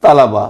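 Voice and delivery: तलबा as ta-la-ba, short a after ल; correct pronunciation. Shown as a demonstration. Teacher showing students the word, तलबा said ta-la-ba. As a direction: say तलबा in three syllables, ta-LA-ba. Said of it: "इसका तलफ़ुज़ किया जाता है".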